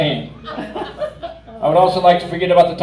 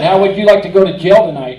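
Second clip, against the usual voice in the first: mock threatening cop; 6 dB louder than usual. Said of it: "He said".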